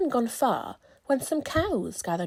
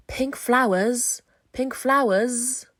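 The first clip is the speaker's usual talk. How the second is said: buzzing bee; 2 semitones higher, 7 dB louder, slower than usual. Acted. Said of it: "buzzed a big stripy bee".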